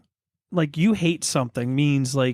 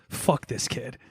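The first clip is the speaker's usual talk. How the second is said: put-on upset kid's curse; 6 dB quieter, slower than usual. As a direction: imitate an upset kid cursing under the breath. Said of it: "Like that".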